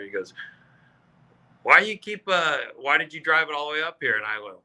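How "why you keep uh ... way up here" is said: higher-pitched, indignant heckler; heckler's challenge. Retold or imitated. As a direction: demand an answer, imitating an irritated heckler. Heckler challenging him in retold quarrel.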